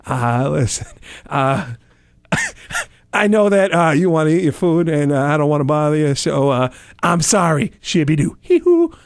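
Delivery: goofy Sandler babble; Adam Sandler impression. Comic apologizes to Walken in goofy Sandler voice. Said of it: "Do your Adam for him".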